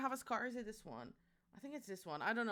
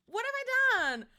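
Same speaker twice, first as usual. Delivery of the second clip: high, loud theatrical cry of dismay; mock outrage; 11 semitones higher, 8 dB louder than usual. Streamer pretending to be wounded by chat, loud and high. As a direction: wail it like a wronged heroine.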